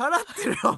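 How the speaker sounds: very high, very loud, laughing through the line. Answering the other speaker's doubtful question, laughing while speaking. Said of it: "笑いながら言ってんじゃねえか。".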